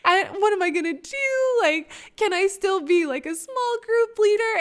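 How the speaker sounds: high-pitched retold panic; freaking out. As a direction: spill out worries in a mock fluster. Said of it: "freaking out".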